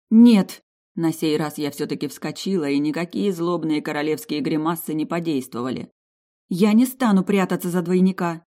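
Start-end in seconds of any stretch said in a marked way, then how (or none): 0.1-0.6 loud outraged shout. A narrator's reading. Princess jumps up refusing. 6.5-8.4 loud indignant refusal; firm, louder protest. A narrator's reading. Princess refuses standing, arms crossed.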